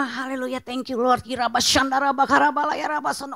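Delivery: rapid-fire praying in tongues, acted out; brisk, zealous praise running without a break; spirited prayer. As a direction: rattle off an eager, energetic prayer. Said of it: "Wah, semangat ya kan?".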